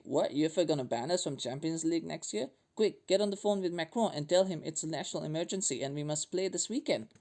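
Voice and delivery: a lightly put-on French accent, barely shifted; half-hearted French accent as the French league; bad French accent. Host mimics French league officials, in a weak French accent. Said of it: "That's a really bad French accent".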